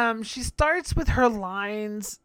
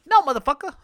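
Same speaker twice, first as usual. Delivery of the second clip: louder, higher outburst; loud exasperation; 7 semitones higher, 8 dB louder, much faster than usual. Real, not acted. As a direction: shut it down hard. Exasperated rant.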